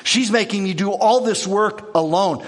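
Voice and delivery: mildly defensive, blaming her sister. Retold or imitated. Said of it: "she gets defensive".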